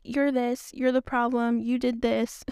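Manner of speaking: mock accusing. Wife retelling how she blames her husband, mock accusing. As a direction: lightly act out pointing the finger. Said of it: "Whenever I'm like".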